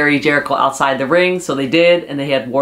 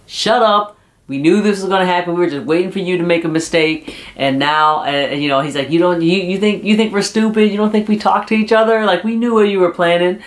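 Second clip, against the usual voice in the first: higher, hammed-up scolding; imitating angry Jericho; 4 semitones higher than usual. Jericho exposing MJF's betrayal, in a mock angry scolding. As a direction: call out the traitor in mock fury.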